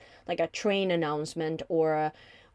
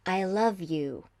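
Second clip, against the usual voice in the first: warm loving; slower than usual. Shown as a demonstration. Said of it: "It's like you would say".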